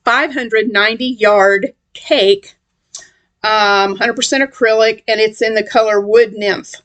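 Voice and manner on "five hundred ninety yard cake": slow, deliberate word by word; careful enunciation. Real, not acted. Vlogger retrying a tongue-tripping yarn description, careful and slow. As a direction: take it slowly to get every word right. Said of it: "let me see if I can say that right".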